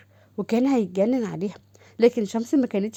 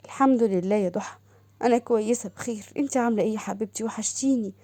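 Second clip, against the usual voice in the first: subdued Shams; 3 dB quieter than usual. Acted. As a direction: answer quietly, holding back. Shams answers, downcast. (صوت شمس الهادي المنكسر)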